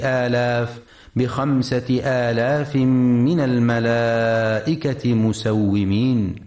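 measured Quranic cantillation; Quran recitation. Acted. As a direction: recite it, drawing out the long vowels.

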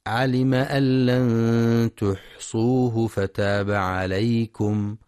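slow, drawn-out tajweed chanting; تلاوة مجودة بطيئة; Quran recitation. Acted. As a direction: chant the verse slowly with long vowels.

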